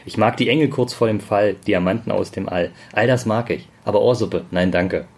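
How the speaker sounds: recited like a poem; solemn recital, building to a punchline. Acted.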